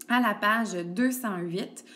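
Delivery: à la page deux cent huit spoken slowly, word by word; slow page number. Shown as a demonstration. Teacher to pupil, giving the page slowly. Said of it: "avec ton cahier ouvert".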